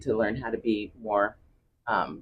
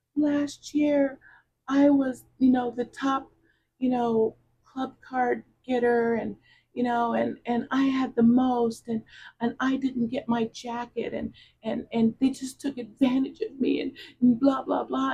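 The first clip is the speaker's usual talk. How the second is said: acted-out tearful, babbling sobbing voice; 13 semitones higher than usual. Retelling how an employee came up crying: imitating someone crying and blubbering. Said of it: "just started crying and blubbering".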